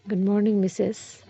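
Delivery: a touch of loving softness; lovingly. Acted. Shreya greeting Swarna at waking, softly loving. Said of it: "Shreya बड़े प्यार से कहती है".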